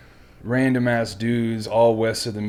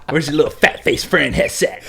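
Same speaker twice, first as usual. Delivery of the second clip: louder, laughing through the words; laughing drill instructor quote; 5 semitones higher, 5 dB louder than usual. Retold or imitated. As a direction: laugh while quoting the instructor. Quoting drill instructor while laughing.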